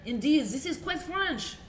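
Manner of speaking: lightly voiced French quilt maker.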